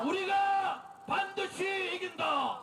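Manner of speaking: slow drawn-out chanted slogan; roaring rallying speech. Real, not acted.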